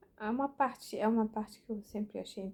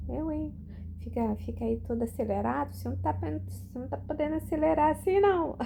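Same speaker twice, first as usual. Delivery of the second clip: higher, louder playful nagging; teasing scold; 8 semitones higher, 7 dB louder than usual. Retold or imitated. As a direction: tease him for rushing, lightly scolding. Teasing the old man.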